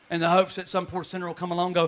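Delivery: sarcastic aside. Acted. Pastor mocking Christian bookstores to the congregation, dry sarcasm. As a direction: tease the church merchandise. Sarcastic comic bit, softer.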